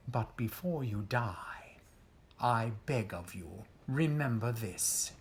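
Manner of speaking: soft, breathy threat; menacing whisper. Acted. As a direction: lean in and whisper the final words. Villain's last words to victim.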